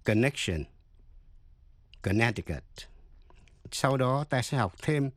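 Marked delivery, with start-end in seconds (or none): 0.0-0.6 "connection" with a light, unreleased k before the sh; touch a k in "connection", barely released; soft k in connection. Shown as a demonstration. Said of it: "Xin nghe và so sánh". 2.0-2.6 "Connecticut" with the middle c silent, like "kuh-NET-i-cut". Shown as a demonstration. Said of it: "Xin nghe và so sánh".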